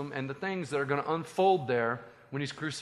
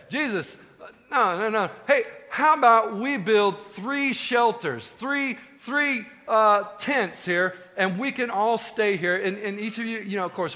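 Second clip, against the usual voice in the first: eager, higher and louder pitch of an idea; Peter; 6 semitones higher, 5 dB louder than usual. Acted. Disciple proposing three shelters to Jesus, excited and eager. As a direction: excitedly sell a bright idea, drawing out key words.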